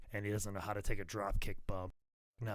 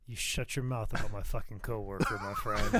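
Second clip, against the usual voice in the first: mock outrage. Defending J R from the co-host's impression, mock angry. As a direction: pretend to be offended, laughing.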